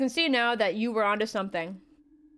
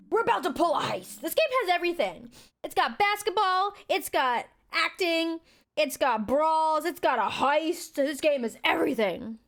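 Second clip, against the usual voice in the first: excited hype; 6 semitones higher than usual. Real, not acted. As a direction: sell it like a trailer voiceover. Hyping up the game.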